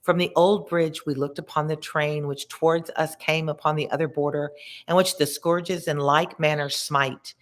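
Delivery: put-on measured reading of old verse; story narration. A narrator's reading. A reader voicing Dante for students, measured narration. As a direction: read the epic lines steadily to listeners. Reads Dante's Inferno aloud.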